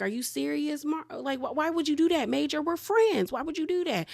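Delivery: high, wounded villain whine; betrayed villain whine. Retold or imitated. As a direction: play the hurt friend turned on. Crockett betrayed by Major.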